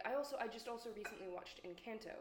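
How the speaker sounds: casual New Jersey accent on Encanto. Real, not acted. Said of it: "the most Jersey accent possible".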